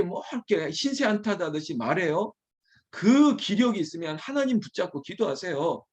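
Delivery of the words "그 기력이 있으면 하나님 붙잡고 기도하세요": usual speaking voice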